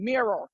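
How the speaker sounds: "mirror" with flat Midwestern R's; mira like mirror. Shown as a demonstration. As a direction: demonstrate a botched "mira" that comes out as "mirror". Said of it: "I sound like I'm saying".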